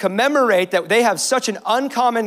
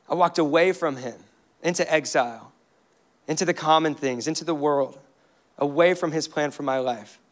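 softer, quiet confession of wandering; a hint of sorrow in the admission; understated grief; 4 semitones lower, 5 dB quieter than usual. Worshipper grieving over wandering from God, softly remorseful. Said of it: "It grieves you when you realize".

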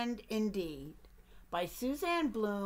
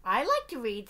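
eager duck; 6 dB louder than usual. Acted. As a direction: pester the bear as a nosy duck. Duck's voice.

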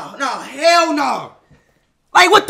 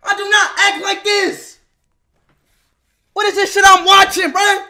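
exasperated protest; 4 semitones higher than usual. Real, not acted. Exasperated denial laughing.

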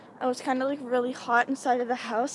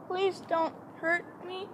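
high, slow pleading; frightened plea; 7 semitones higher, slower than usual. Pretend. Vlogger alone outside fearing the clown, frightened plea. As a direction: beg slowly, without raising the volume.

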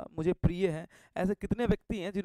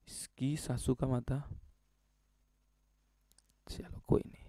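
muttered aside; 6 semitones lower, 10 dB quieter than usual. Real, not acted. Muttering under breath.

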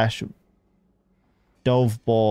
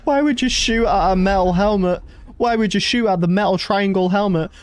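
exasperated disbelief; 7 semitones higher than usual. Real, not acted. Exasperated at player.

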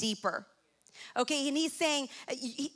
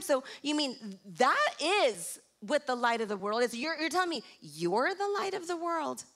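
incredulous questioning, lightly acted; confused, frustrated. Listeners questioning Jesus's claim to be the light, mildly confused. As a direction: question it as a puzzled listener would. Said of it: "were a little frustrated, some confused".

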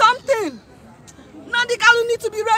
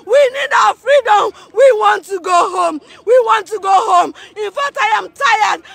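tearful shout. Real, not acted. Crying appeal to world.

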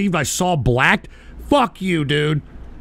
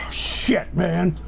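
softer, breathy mutter; weary muttered sigh; 3 semitones lower, 7 dB quieter than usual. Real, not acted. Streamer deflating after yelling at chat, tired mutter. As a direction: let it all out, drained.

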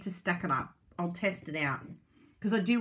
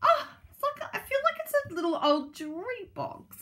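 much higher, gushing delight. Real, not acted. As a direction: swoon over it like a treasure. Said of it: "I'm gonna get emotional".

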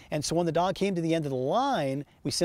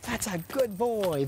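bright, high-pitched praise for the dog; high-pitched coaxing to a dog; high happy dog call; 7 semitones higher than usual. Real, not acted. Trainer calling dog in high voice.

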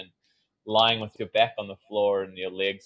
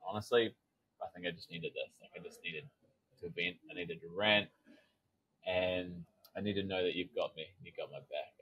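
much softer, half-whispered admission; small quiet confession; 3 semitones lower, 9 dB quieter than usual. Retold or imitated. Inner child quietly tells her he needs her backing, much softer. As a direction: let the little boy confess he needed this. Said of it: "he's like".

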